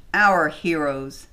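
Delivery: mock praise, drawn out slowly; ironic. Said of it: "with her ironic Canadian edge".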